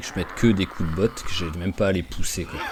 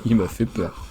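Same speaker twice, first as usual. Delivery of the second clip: laughing; 3 semitones higher than usual. Real, not acted.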